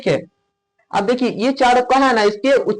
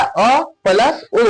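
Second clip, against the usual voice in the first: slow vowel demo; much slower than usual. Shown as a demonstration. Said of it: "औ किससे मिलके बना हुआ है?".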